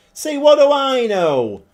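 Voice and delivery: loud and high, gloating at his own call; gloating exclamation. Real, not acted. Manager gloating after his striker scores, loud. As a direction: crow it like you were proven wrong.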